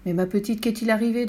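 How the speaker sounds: mildly worried father's question. Acted. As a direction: ask with a touch of concern. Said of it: "demanda-t-il inquiet". (légèrement inquiet)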